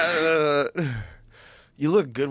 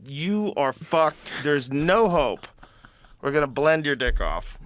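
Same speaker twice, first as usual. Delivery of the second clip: menacing robot voice. Pretend. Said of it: "it's like they're saying".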